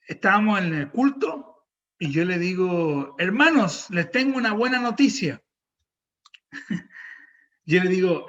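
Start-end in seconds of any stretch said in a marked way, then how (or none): 3.2-5.4 raised, rising announcement voice; announcing good news. Retold or imitated. Pastor tells the brothers good news at service, announcing. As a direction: call it out to the whole congregation.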